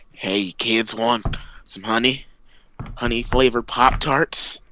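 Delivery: lightly voiced character, slow and measured; Robin Williams. Man from the toaster offering kids Pop-Tarts, slow. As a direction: offer it slowly, a hint of an impression. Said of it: "Robin Williams says".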